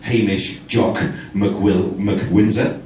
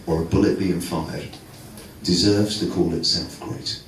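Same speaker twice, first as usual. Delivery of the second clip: mock solemn speech.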